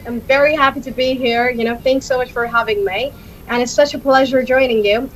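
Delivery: easygoing greeting in an American accent. Shown as a demonstration. Showing the same greeting in another accent, American accent. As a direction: switch to American English for a thank-you.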